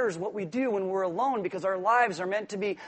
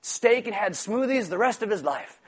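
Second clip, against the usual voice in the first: mock sales pitch; 3 semitones higher, 4 dB louder than usual. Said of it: "We wanna say".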